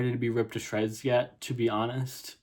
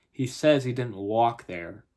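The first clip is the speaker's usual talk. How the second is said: lightly voiced Southern mother; Southern accent; 4 dB louder than usual. Mother cuts in on the policeman, light Southern accent. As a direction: chime in with a touch of Southern. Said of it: "if I have a terrible Southern accent".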